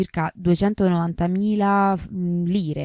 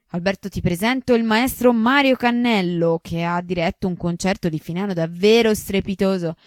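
social cheer; 3 semitones higher, 4 dB louder than usual. Acted. Presentazione mondana, tono festoso.

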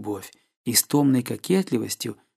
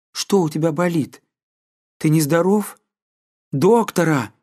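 frightened cry; 6 semitones higher, 4 dB louder than usual. A narrator's reading. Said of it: "крикнула она".

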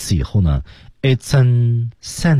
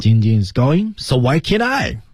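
lively question; 2 semitones higher than usual. Shown as a demonstration.

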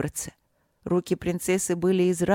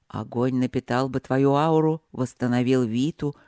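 lower, gently smiling husband; low male voice; 4 semitones lower than usual. Acted. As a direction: speak low with a slight smile. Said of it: "проговорил Нори и легко улыбнулся".

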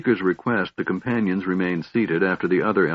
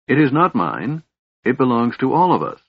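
flustered protest, higher; 6 semitones higher, 3 dB louder than usual. A narrator's reading. Gilphinus denying before his father, flustered. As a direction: blurt it out, embarrassed. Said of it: "flushing as he felt the companion's eyes".

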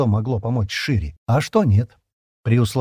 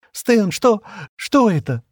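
stammering; 11 semitones higher, 3 dB louder, slower than usual. A narrator's reading. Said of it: "запинаясь, прошептала она".

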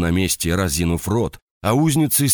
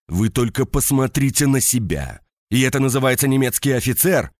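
angry shouting; 3 semitones higher than usual. Acted. Officer berating a subordinate.

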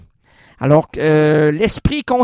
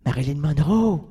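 seance medium. Acted. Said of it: "c'est le médium qui rentre en transe".

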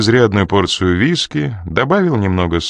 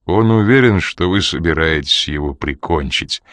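mocking; 3 semitones lower than usual. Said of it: "насмешливо произнёс Коридон".

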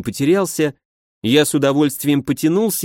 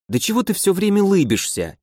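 displeased snort; 7 semitones higher than usual. A narrator's reading. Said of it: "недовольно фыркнула Васька".

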